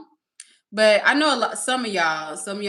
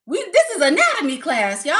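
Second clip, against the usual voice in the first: loud, high, amused announcement; laughing exclamation; 6 semitones higher, 8 dB louder than usual. Real, not acted. Host teasing viewers about body-part talk, laughing loudly. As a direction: laugh while proclaiming it. Joking about the chat's topics.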